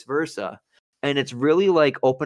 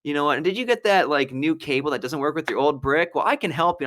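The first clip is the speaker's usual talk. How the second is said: infomercial pitch; 3 semitones higher than usual. Acted. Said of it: "I made a video and I was just like".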